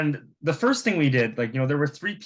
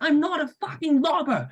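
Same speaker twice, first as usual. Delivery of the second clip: angry, high-pitched imitated Italian accent; mock-enraged Italian, pitched way up. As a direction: put on a thick, furious Italian accent. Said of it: "in a very Italian accent".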